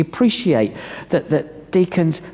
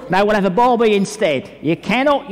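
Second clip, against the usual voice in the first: higher-pitched mock Australian mate; playful Australian accent; 5 semitones higher than usual. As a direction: ham up an Australian accent lightly. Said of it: "Is that a good Australian accent?".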